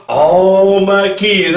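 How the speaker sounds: slow, drawn-out mock of her. Vlogger mocking the mother's plea, slow drawn-out imitation. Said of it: "in the way she did it".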